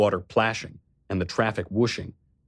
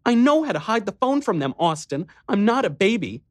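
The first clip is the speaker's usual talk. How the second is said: high, louder, sulky little-sister snap; petulant; 11 semitones higher, 3 dB louder than usual. Acted. Riley to her annoying big brother, petulant. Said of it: "get petulant with her annoying big brother".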